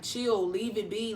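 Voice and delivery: slow, retold plea to calm down; mildly pleading, drawn out; begging. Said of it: "Like, I was begging him".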